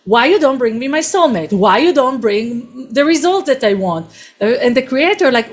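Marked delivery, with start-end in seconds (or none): 0.1-4.1 mock demanding scream. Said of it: "like, screaming".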